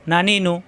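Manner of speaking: না নি নু as three short syllables; brief even vowels in না নি নু; no stretching. Shown as a demonstration. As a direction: say না নি নু without holding any vowel. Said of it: "কোনো টান নেই".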